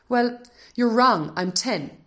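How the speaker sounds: put-on indignant boy. A narrator's reading. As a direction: snap back, stung at being called nine. Flushed boy retorts.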